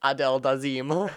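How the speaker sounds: mock announcer mangling the name; Travolta flub. Quoting the famous Oscars flub. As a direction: botch the name like a showy presenter. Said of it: "That's what he said when he fumbled".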